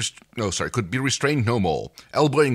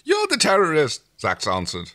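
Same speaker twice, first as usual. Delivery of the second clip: accusing; 4 dB louder than usual. Acted. Alien delegates argue.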